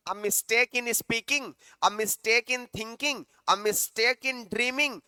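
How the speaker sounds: very slow, every word spaced; slow option reading. Shown as a demonstration. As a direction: read each choice slowly and evenly.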